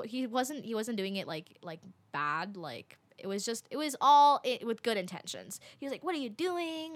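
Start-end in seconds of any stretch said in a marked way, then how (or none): 6.0-6.9 high-pitched imitation of a worried man; retold anxious question, pitched up; mildly acted concern, without real volume. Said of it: "Like, he was worried".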